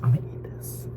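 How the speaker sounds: hushed whisper before the first bite. Real, not acted. Whispering to the camera before tasting her bowl. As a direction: breathe it out as a secret. About to taste her food.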